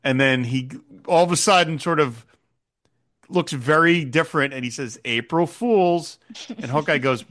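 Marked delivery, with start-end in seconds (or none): 5.1-6.2 slow, sly reveal of the prank; a touch of sinister glee, drawn out; sly April Fools. Retold or imitated. Colonel springs his prank on Hawkeye, slow and sly.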